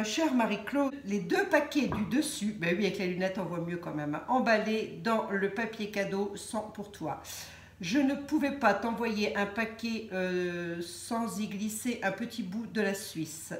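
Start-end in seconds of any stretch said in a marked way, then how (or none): 0.0-2.6 measured letter-reading voice, pitched up; reading a letter aloud. Acted. Lit le mot de Sylvie. 4.3-13.5 deliberate, carefully phrased reading; reading a letter aloud. Acted. Lit le mot de Sylvie.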